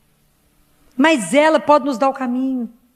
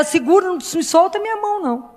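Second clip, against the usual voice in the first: pleading prayer; 6 semitones higher than usual. Acted. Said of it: "nós temos que olhar pra ela e pedir a ela".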